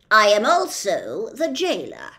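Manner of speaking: loud, slowish officious policeman; pompous policeman. Acted. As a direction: lay down the law with bluster.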